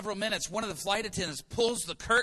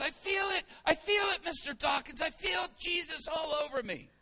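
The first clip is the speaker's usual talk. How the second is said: high excited outcry; overwhelmed shouting; 9 semitones higher than usual. Retold or imitated. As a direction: call out as if flooded with feeling. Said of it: "He goes".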